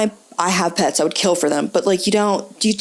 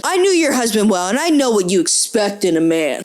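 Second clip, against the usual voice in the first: put-on lightly Italian-accented fuckboy; smooth suitor with a hint of Italian; 3 semitones lower than usual. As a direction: pitch yourself with an Italian lilt. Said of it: "Italian accent for the fuckboy".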